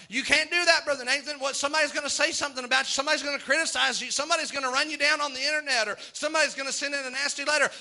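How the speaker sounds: quick, high taunting devil; hurried mock devil. The devil needling Brother Nathan with threats, fast and high. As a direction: rattle off his threats to scare. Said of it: "devil's voice continues".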